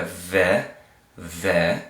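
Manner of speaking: "Ve" with an open eh, as in vet; sounding out. Shown as a demonstration. Teacher reading Vav with Sheva, sounded out. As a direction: hold "Ve" as a lone syllable. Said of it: "so that's gonna make a Ve".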